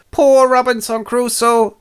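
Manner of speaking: high, slow, squawky parrot voice; a parrot repeating its line; squawking parrot. Acted. Parrot squawking at Robinson, high and slow.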